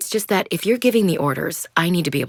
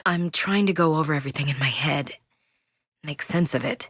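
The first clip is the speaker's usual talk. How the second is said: whispered; 3 dB quieter than usual. Acted. Grieving soldier thinking aloud.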